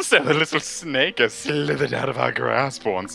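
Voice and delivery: creepy voice. Acted. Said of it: "gave him a creepy voice".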